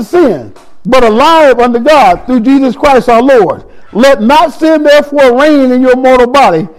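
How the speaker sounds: slow, measured Bible reading; a preacher reading Romans aloud; scripture reading. Acted. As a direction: read the verse with weight.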